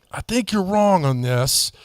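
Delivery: slow, measured polite disagreement; courteous, unhurried brotherly objection. Retold or imitated. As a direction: gently tell a brother he is mistaken. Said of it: "in a very polite, brotherly way".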